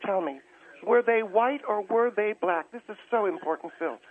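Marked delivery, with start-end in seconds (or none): 0.9-2.7 slow, deliberate question, word by word; slow and careful. Real, not acted. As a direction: spell it out slowly. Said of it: "very slowly and very carefully".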